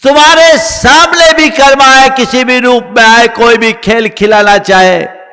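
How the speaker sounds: starts high and strong, easing gradually; forceful preaching. Real, not acted. Preacher turning the story on the listeners, forceful preaching. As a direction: exhort the listeners with full conviction.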